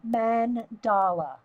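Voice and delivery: Mandala drawn out slowly, man-TAH-lah. Shown as a demonstration. Repeating the UK viewers' way, slow careful UK Mandala. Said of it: "that's the U K pronunciation".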